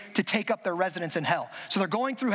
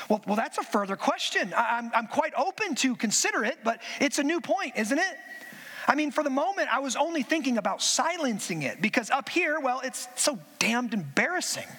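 a hint of a nervous, hedging ghost; flustered ghost making excuses to the angel; lightly voiced flustered ghost; 3 semitones higher than usual. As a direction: stall politely, embarrassed. Ghost voiced in read story.

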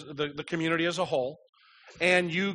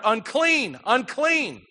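imitated warning cry, raised and higher; mock yell; 6 semitones higher, 5 dB louder, much slower than usual. Leper warning someone walking toward him, mock yell. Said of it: "you had to yell out".

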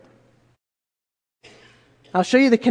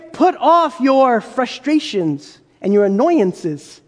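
mock softened version; slower than usual. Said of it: "Can you say".

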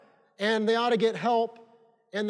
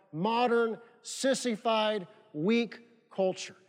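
scornful; 3 dB quieter, slower than usual. Real, not acted. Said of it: "scornful slow delivery".

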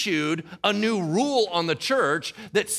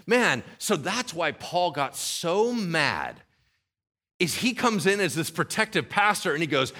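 ordinary talk

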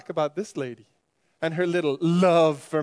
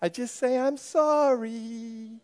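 angry rant; 6 semitones higher, 5 dB louder than usual. Acted. Rival pastor angrily rebuts Grace.

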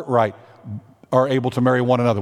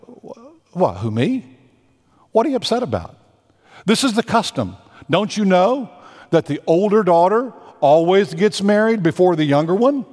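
feigned innocence; 3 semitones higher than usual. Acted. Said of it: "Laban's like".

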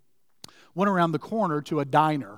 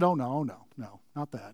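embarrassed; 5 semitones lower, 6 dB quieter than usual. Retold or imitated. Woman taking back her birthday remark, quietly embarrassed. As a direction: back off softly, fading away.

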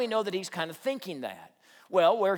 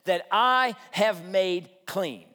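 God scolding Peter, higher, slow and stern; upset God; 5 semitones higher, slower than usual. Acted. God rebuking Peter for calling things unclean, stern and slow. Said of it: "God's voice is very upset".

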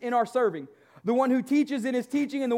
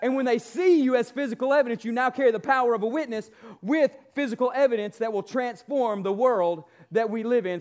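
booming motivational speech; 2 semitones higher than usual. Acted. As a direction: preach it at full force to the congregation. Builds to booming preaching.

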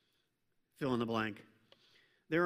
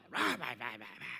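bleeped mock cursing; 6 semitones lower, 5 dB quieter, much faster than usual. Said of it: "let the cuss words fly".

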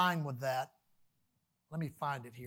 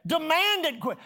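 louder demand; 5 semitones higher, 4 dB louder than usual. Shown as a demonstration. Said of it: "preaching emphasis".

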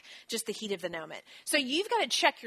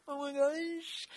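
exasperated oh my gosh; 6 semitones higher, slower than usual. Retold or imitated. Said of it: "And I'm like".

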